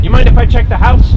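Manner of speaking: shouting over din. Acted. Marshal asks hostess to search house, shouting over din. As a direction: call out to be heard over a crowd. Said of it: "I can barely hear her over the din".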